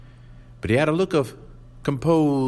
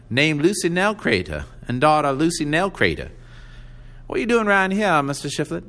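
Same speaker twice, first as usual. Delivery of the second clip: put-on old woman voice; 7 semitones higher than usual. A narrator's reading. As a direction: press him like a shrewd old widow.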